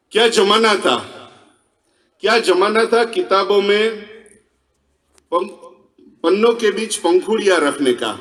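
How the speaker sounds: poetry-stage delivery with deliberate line breaks; verse recitation. Acted. Speaker delivers Laila punchline and nostalgic verse to audience, poetry recital. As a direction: recite in phrases, pausing for the audience.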